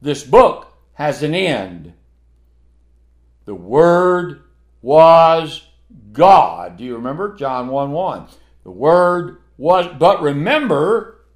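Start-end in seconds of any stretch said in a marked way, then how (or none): 3.4-6.8 slow, loud proclamation; booming. Real, not acted. Preacher to congregation, slow booming proclamation. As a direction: boom out each word slowly.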